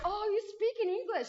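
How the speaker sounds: surprised. Retold or imitated. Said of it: "And she was like".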